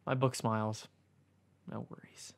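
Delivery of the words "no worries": whispered reply; tiny whispered "no worries". Acted. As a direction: breathe the line out. Book's short reply in dialogue.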